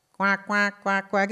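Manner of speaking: imitated duck quacks, evenly spaced; duck alarm. Recalling the old iPhone alarm, lightly quacked. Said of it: "It sounded like a duck".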